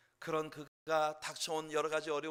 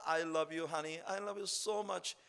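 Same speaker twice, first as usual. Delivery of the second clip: doting husband; 4 semitones higher, much slower than usual. Acted. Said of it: "엘가나가 한나를 보고 맨날 말합니다".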